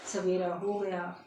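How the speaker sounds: drawn-out, tender morning call; loving wake-up. Acted. Parrot telling its master morning has come, lovingly. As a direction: coax the sleeper awake, slowly and fondly. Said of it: "उसने बड़े प्यार से बोला".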